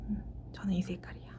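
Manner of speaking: whispering. Real, not acted. Client picks a card quietly.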